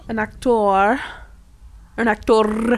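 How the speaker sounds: clipped British an actor; British accent. Shown as a demonstration. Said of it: "like, British".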